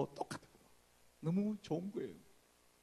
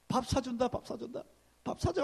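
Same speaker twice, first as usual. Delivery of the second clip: higher, pleading 밥 사줘; higher eager begging, rising at the end; 9 semitones higher than usual. Retold or imitated. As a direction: wheedle for the secret.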